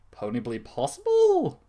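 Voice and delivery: puzzled reread. Real, not acted.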